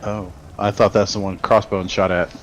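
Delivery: usual speaking voice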